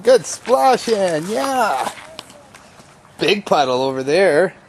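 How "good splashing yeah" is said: slow sing-song encouragement; drawn-out praise. Real, not acted. Dad praising toddler again.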